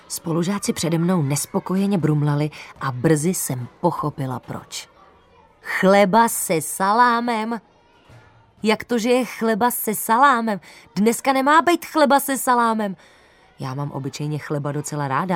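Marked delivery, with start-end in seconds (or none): 5.6-13.0 can't believe it's bread with salami; indignant disbelief. Acted. Girl outraged at the lunch menu, high and loud.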